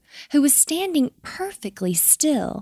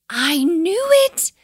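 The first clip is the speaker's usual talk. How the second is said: high, slow, loud I-told-you-so; triumphant owl; 9 semitones higher, 5 dB louder than usual. A narrator's reading. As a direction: crow it out, stretched and pitched up. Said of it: "said Missus Ruru".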